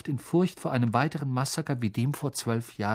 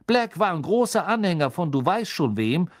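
put-on higher, louder gossiping young conductor; Stan the conductor; 4 semitones higher, 5 dB louder than usual. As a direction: lean in and spread the rumour.

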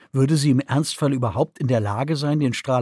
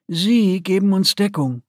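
higher, firm commander's voice; remembered command; 6 semitones higher than usual. A narrator's reading. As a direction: echo the commander's order. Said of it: "hörte Celestaris die Stimme der Akonidin in ihrem Kopf".

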